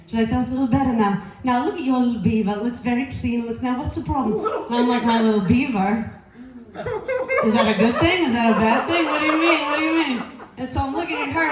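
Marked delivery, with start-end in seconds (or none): 0.3-4.4 lightly imitated British accent; British gynecologist. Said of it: "she's British". 5.0-10.2 loud, mock-alarmed questions; startled questioning. Acts out her startled reply.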